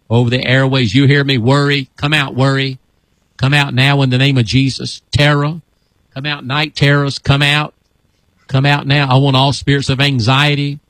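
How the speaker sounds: steady, level-toned commands to spirits; deliverance prayer. Real, not acted. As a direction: command the demons out, evenly and insistently.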